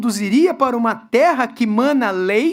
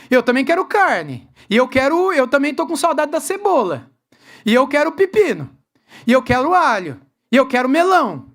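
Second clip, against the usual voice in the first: whiny, swooping end on each demand; mock whining. People demanding favourite foods from their leader, mock whining. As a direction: pretend complainers piling up demands.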